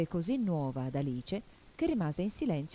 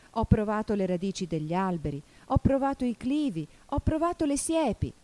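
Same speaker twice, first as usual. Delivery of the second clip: climbing higher with each item; agitated complaint; 5 semitones higher, 4 dB louder than usual. Acted. Pigeon lists the places it tried, agitated complaint. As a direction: build the exasperated list upward.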